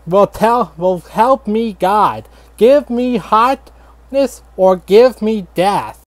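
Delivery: hammed-up founding father proclaiming; mock patriotic cry. Founding father rallying the colonists, hammed-up slow cry.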